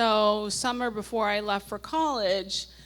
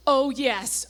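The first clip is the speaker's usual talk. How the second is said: louder, thrilled burst; all caps; 3 semitones higher, 5 dB louder than usual. Retold or imitated. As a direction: blurt it out in capitals. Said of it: "all caps".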